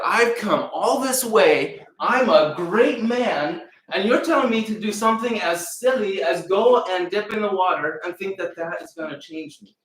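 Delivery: a proud man fuming at a silly order; furious general. Acted. General scoffing at the prophet's cure, loud and indignant. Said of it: "this man was furious".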